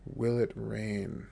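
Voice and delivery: slow, every word drawn out; slow model phrase. Shown as a demonstration. Teacher modelling "Will it rain?" slowly for listeners. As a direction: spell it out slowly for learners. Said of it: "teacher models phrase slowly".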